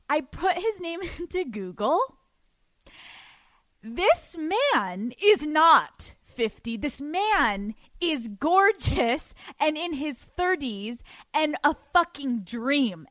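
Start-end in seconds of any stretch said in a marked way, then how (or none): 3.8-13.1 slow, loud, drawn-out gushing. Real, not acted. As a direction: savour every word about him. Gushing over his photo.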